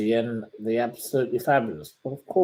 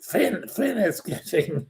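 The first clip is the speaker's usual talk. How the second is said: gleeful teasing; 3 dB louder, slower than usual. Real, not acted. Joking about friend.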